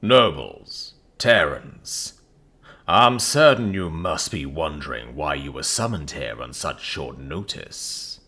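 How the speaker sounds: put-on slow, loud, grand mid-Atlantic accent. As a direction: address the court in affected mid-Atlantic. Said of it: "In an affected mid-Atlantic accent".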